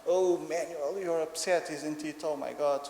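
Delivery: slightly hammed-up parental sympathy; sympathetic daddy. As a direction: mirror a small child's upset, lightly. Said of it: "And I try".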